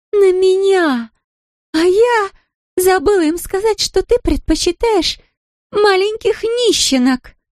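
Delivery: put-on high, ranting drunk woman; drunken shouting. A narrator's reading. Drunk Larisa keeps shouting at Ramsey, high ranting. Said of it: "продолжала кричать Лариса".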